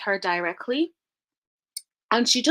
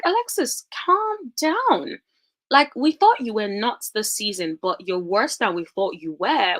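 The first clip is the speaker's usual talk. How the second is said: scolding incredulous; 3 semitones higher than usual. Retold or imitated. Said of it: "I'm like".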